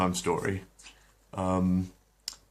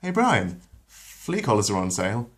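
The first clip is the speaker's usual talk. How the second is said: Meg voice; 2 semitones higher, 4 dB louder than usual. Acted. Meg to Brian.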